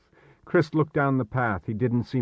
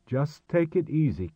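higher but unforced, even volume; calming; 5 semitones higher than usual. Acted. Marek to panicking Chris after losing the marker, calming. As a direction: settle a panicking friend.

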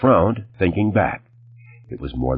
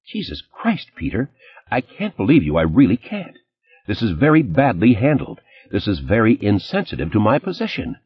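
exasperated; 5 semitones higher than usual. Acted. Ex-wife scolds about press.

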